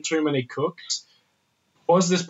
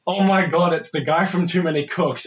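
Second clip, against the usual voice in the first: surprised; 5 semitones higher, 4 dB louder than usual. Retold or imitated. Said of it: "I'm like".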